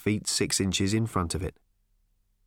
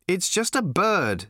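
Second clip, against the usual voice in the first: impatient; 7 semitones higher, slower than usual. A narrator's reading. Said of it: "said Arthur impatiently".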